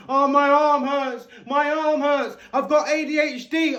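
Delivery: hammed-up whimpering voice; mock crying. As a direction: sneer at him whining about his arm. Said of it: "Now you're crying".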